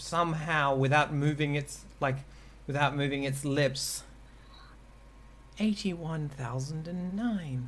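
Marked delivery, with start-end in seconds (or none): 5.6-7.7 put-on soft little old lady voice. Telling how a staring thing blinks and then speaks, little old lady voice. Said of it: "it says in the little old lady voice".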